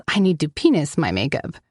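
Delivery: "penis" said for "finish" through lipstick; lipstick mumble. A narrator's reading. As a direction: slur finish into "penis" while applying lipstick. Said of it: "it comes out as".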